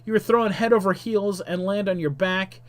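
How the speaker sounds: lively game-story narrator; dramatic story narration. A narrator's reading. Narrator tells player of the exploding shrine, dramatic narration. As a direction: narrate the climax with punchy emphasis.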